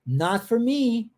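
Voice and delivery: "Not for me" slow and drawn out, lingering on "me"; intonation demo. Shown as a demonstration. Teacher showing the student how the phrase sounds, slow melodic "Not for me". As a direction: stretch out "Not for me" to show its tune. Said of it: "tem uma entonação".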